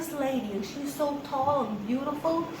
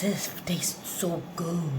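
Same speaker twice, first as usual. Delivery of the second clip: savouring; 7 semitones lower, 6 dB quieter, slower than usual. Real, not acted. Savouring a taste of seasoning.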